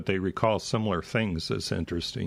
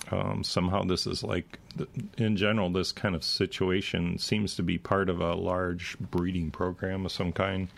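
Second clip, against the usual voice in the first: speaking through a parched throat; dry throat. Real, not acted. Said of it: "my throat gets so dry tonight".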